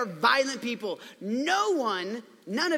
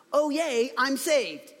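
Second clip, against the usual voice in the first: raised-pitch sarcastic little celebration; mock cheer; 3 semitones higher, much slower than usual. Man swallowed by a fish, mock cheer. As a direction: pretend to be delighted, insincerely. Mocks an imagined joyful thought.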